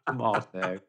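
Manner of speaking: tomato with a long "ah" in the middle; British pronunciation. Shown as a demonstration. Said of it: "I say".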